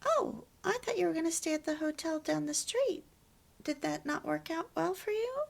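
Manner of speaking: high-pitched gentle inquiry demo; curious, non-blaming. Shown as a demonstration. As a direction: model asking without accusing, pitch lifted. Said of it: "let me listen to why you chose".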